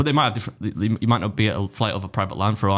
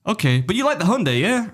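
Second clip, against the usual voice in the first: higher mock American man; 7 semitones higher than usual. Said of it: "He's like".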